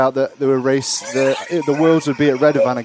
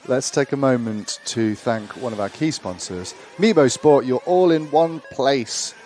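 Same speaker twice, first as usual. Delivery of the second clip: ad read; 3 dB quieter than usual. Acted. Reads sponsor message.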